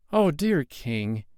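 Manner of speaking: high, slow, trembling plea; a boy begging the king, voice trembling; trembling child. A narrator's reading. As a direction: quaver like a scared little boy. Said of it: "with a trembling voice".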